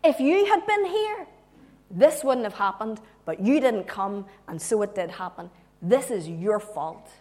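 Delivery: mock reproach, stressed word by word; accusing. Acting out Martha's blame of Jesus.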